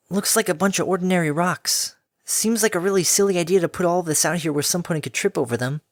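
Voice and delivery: high, dismissive tomboy filly; shrugging it off; young filly voice. Acted. Filly scoffs.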